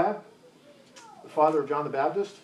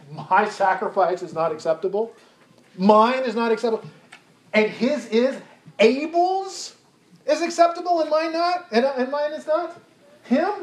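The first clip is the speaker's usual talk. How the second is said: resentful Cain; 2 semitones higher than usual. Acted. Cain complaining to God about Abel, indignant and jealous. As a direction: sulk and fume at the favored brother. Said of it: "his attitude is more like".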